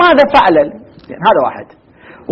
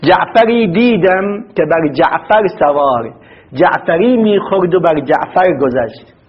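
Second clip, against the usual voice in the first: slow poem recital; 3 semitones lower, slower than usual. Shown as a demonstration. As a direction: recite the Persian riddle verse slowly. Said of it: "فرد بيت شعر". (تلاوة بطيئة لبيت الشعر)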